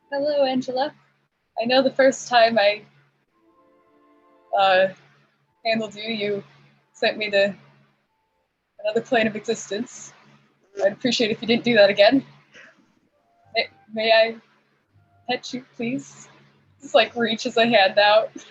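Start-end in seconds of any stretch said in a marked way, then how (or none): 0.1-16.2 cautious, halting, hesitant and tentative speech. Voicing Tobias asking a chicken named Angela for permission to pet her: hesitant, in character as Tobias. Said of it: "hesitantly goes towards Angela. He's like".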